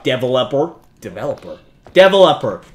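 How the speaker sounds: mock summons building up; building call. Real, not acted. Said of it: "Why did I say that?".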